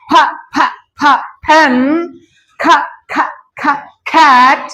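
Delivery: puffed ফা and খা, then ফ্যান and খ্যাট; aspirated sound drill. Shown as a demonstration. Teacher showing how to practise, aspirated consonant drill. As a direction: repeat ফা and খা separately, then the whole word. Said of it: "এইভাবে practice করতে হবে".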